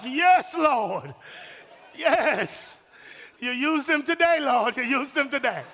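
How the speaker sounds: lightly voiced wife rejoicing; grateful wife. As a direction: praise God like a thrilled wife. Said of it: "she'd be like".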